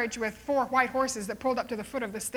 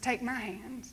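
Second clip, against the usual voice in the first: gentle offer; 5 dB quieter, slower than usual. Acted. Moody comforts the boy.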